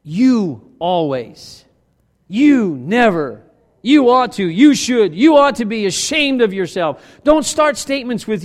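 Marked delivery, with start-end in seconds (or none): 0.0-7.0 slow, accusing list of phrases; condemning phrases. Retold or imitated. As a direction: spit out each blaming phrase. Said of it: "Don't use phrases like".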